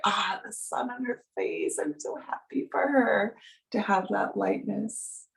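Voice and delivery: soft sigh of gladness for someone; softly glad, a touch wistful; appreciative joy. Acted. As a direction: voice gentle, tender joy on another's behalf. Voices joy for dear one.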